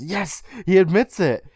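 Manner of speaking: high, gleeful little cheer; excited cheer. Retold or imitated. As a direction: cheer it like you caught him. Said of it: "Kiki gets excited".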